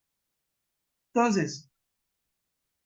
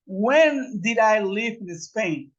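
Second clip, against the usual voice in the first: slow, careful teacher's demo of the question; a teacher's slow example; slow model question; 4 dB louder, slower than usual. Shown as a demonstration. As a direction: lay it out slowly for the class. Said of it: "porque yo digo".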